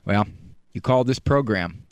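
usual speaking voice

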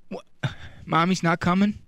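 ordinary talk, nothing marked

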